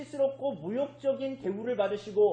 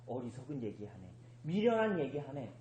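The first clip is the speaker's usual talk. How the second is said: low, quiet dismissive aside; dismissive scoff; 8 semitones lower, 6 dB quieter than usual. Retold or imitated. Gentiles reacting to a crucified saviour, dismissive. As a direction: brush it off as foolish talk, under your breath. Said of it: "라고 받아들일 수밖에 없었던 거야".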